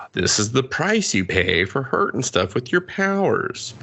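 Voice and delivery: slow, drawn-out fatherly lecture; solemn dad. Retold or imitated. Dad lecturing Charlie, slow mock solemn. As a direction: lay it on like a grave father.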